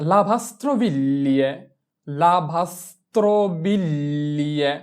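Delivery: slow model "লাভাস্ত্রবিল্লিয়ে" with a long L glide at the end; gli pronounced as L. Shown as a demonstration. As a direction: draw out "লাভাস্ত্রবিল্লিয়ে" part by part. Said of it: "আমরা জি কে এল এ ধরে উচ্চারণ করব".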